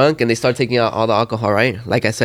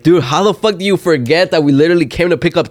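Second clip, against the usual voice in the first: higher-pitched exasperated rant; retold pissed outburst; 5 semitones higher, 3 dB louder than usual. Friend confronts driver about forgotten bottles, pissed. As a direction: re-enact chewing out a forgetful friend. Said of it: "I got so pissed right there".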